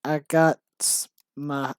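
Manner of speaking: slow mock gangster, drawn-out words; hammed-up gangster, word by word; stereotyped gangster. Writer reading out own embarrassing script, mock gangster. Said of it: "stereotype of how gangsters talk".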